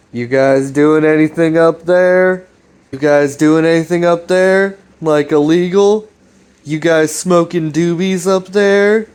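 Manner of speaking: hammed-up dad asking if they're smoking; joking dad. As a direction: tease like a nosy dad checking on the kids. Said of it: "kinda joke about Chris's dad".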